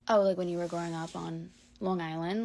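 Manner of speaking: lightly imitated Long Island accent. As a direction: slip into Long Island talk with attitude. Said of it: "I'm talking like I'm from Long Island".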